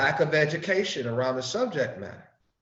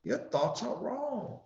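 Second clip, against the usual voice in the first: higher, louder, pleading preaching; earnest preaching; 5 semitones higher, 3 dB louder than usual. Retold or imitated. Preacher addressing his brother in the eye, raised and earnest. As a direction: call it out to your brother. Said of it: "look him in the eye and say".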